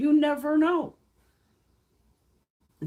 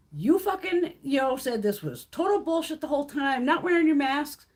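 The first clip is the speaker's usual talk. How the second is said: angry rant; 3 semitones higher than usual. Retold or imitated. Venting at hospital staff's anti-vaxxers.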